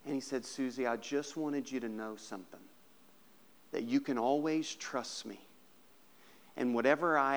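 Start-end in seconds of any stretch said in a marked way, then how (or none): 0.4-5.4 tender father. Acted. Father tenderly revealing gift.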